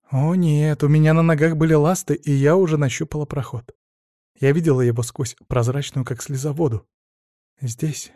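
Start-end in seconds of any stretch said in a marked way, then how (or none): none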